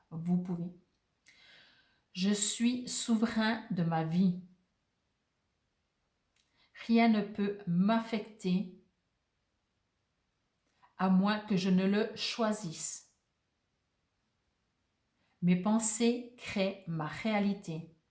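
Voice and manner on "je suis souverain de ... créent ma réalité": very slow, deliberate read-aloud pace. Reading an affirmation aloud so listeners can repeat it, reading very slowly. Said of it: "je vais la lire très lentement".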